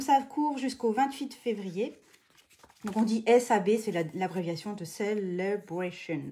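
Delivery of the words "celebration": carefully pronounced English word in French talk; English accent. Shown as a demonstration. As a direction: put on a light English accent. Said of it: "avec mon super accent anglais".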